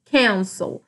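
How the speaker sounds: "cancel" stressed on "can"; "cancel", weight on "can", second syllable falling away; stress on first syllable. Shown as a demonstration. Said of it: "minha sílaba mais forte é o can".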